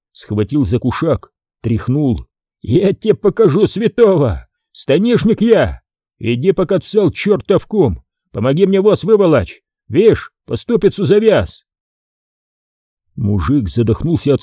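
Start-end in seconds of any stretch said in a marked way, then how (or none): 2.6-11.6 raised, roughly threatening peasant; a touch of menace shaking him by the sash; mild mock threat, raised; lightly voiced angry Foma. A narrator's reading. Foma grabs townsman.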